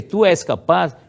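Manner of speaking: put-on Tu és capaz as the old wording; Tu és capaz said as the parent's phrase; second-person version. Shown as a demonstration. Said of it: "em vez de ser".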